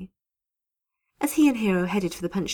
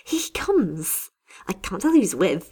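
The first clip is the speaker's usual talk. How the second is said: excited call; 4 dB louder than usual. Acted. Hilde at the window announcing Hero's arrival, excited. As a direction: sing out the news from the window. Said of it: "Hilde called out excitedly".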